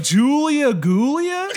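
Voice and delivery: high, slow, sobbing mock cry; hammed-up tearful wail, high and drawn out; imitating crying. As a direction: blubber the name like she's bursting into tears. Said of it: "She starts crying".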